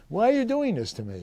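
high, loud, quick plea of disbelief; indignant protest. Retold or imitated. Officer objecting to his career counselor's orders, indignant protest.

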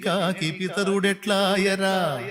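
slow chanted verse over music; drawn-out recitation of a Vemana poem. Acted. Repeats verse. (నెమ్మదిగా పద్యం రాగంతో చదవడం)

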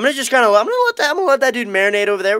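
mock squeaky aside; silly high voice. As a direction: toss it off in a goofy voice. Squeaky playful remark.

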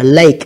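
lake with an "ay" vowel; long A sound. Shown as a demonstration. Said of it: "âm A nha các bạn".

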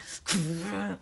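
mouthed crashing drum noise; vocal burst of drum hits; imitated drum crash. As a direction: imitate hard drumming with your mouth. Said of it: "but I was like".

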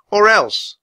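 ELSE as a high, loud threat; high, loud ultimatum; defiant girl. A narrator's reading. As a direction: warn the villain in a girl's high voice. Annie threatens the king.

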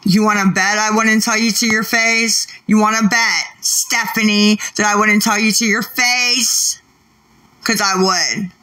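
real argument, pressing the challenge; firing back at a heckler; confrontational challenge. Real, not acted. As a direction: challenge them, indignant and insistent. Real quarrel with a viewer.

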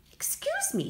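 very high, small squeak; little pig voice. Acted. Little pig asking the group, high tiny voice. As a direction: ask politely in a tiny pig voice. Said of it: "said the little pig".

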